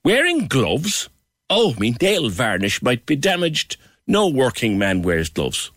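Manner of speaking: a hint of a scornful friend, slow on the first words; mocking Kieran. Host reading out a friend's teasing message, mildly mocking. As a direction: lightly sneer it like a teasing friend. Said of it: "according to Kieran on WhatsApp".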